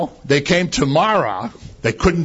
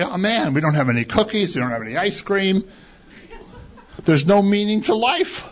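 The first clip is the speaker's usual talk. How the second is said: mock whine; 5 semitones higher than usual. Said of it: "putting on the T V ... and say".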